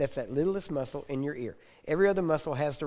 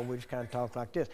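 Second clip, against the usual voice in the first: softer, easygoing Texan drawl; slow Texan drawl; 2 semitones lower, 5 dB quieter than usual. Shown as a demonstration. Texan showing how Texans talk, slow drawl. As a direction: talk in a relaxed Texas drawl. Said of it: "we just have slow drawl".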